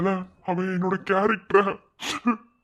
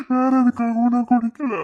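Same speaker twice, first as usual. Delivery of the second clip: loud, higher anguished cry; emotional outburst; 5 semitones higher, 7 dB louder than usual. Acted. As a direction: burst out in anguish. Emotional confession climax. (உணர்ச்சிப் பெருக்கில் கத்தல்)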